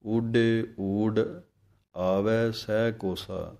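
ਊਡੇ ਊਡ slow, held together before ਆਵੈ; phrase ਊਡੇ ਊਡ as one slow unit; alternate phrasing. Shown as a demonstration. Teacher shows students another accepted ਊਡੇ ਊਡ reading. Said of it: "ਕਈ ਸਿੰਘ ਬਾਠ ਇਸ ਤਰ੍ਹਾਂ ਵੀ ਬੋਲਦੇ ਹਨ".

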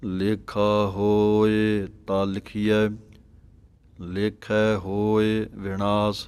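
slow, measured sacred recitation with drawn-out vowels; slow devotional Gurbani reading; scripture recitation. Shown as a demonstration. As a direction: recite each phrase deliberately, holding the long vowels.

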